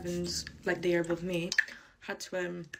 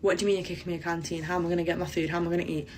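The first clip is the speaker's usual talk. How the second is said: indignant protest; much faster than usual. Retold or imitated. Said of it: "I was like".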